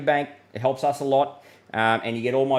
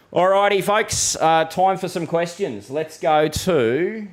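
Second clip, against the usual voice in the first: higher and louder, calling the room to attention; rally the viewers for questions; upbeat call-out; 4 semitones higher, 5 dB louder, slower than usual. Real, not acted. Forecaster calling viewers to question time, bright and loud.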